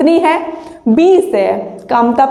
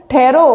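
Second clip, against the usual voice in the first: ठहरो alone, rising at the end; stop after ठहरो. Shown as a demonstration. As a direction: say ठहरो as its own command, then stop. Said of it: "अब ये कह रहा है". (ठहरो पर रुकें)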